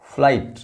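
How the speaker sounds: फ्लाइट as one syllable, no G or H; silent GH. Shown as a demonstration. Teacher modelling the next word for learners, फ्लाइट with silent GH. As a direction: say फ्लाइट with the GH unspoken. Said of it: "यहाँ भी जीएच silent है".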